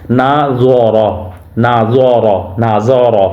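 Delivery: را in نا زوا را said full and thick; heavy ra. Shown as a demonstration. Teacher drills the heavy ra for pupils. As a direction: give the ra a heavy, full sound. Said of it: "را کو ہمیشہ پر یعنی کہ موٹا پڑھا جاتا ہے".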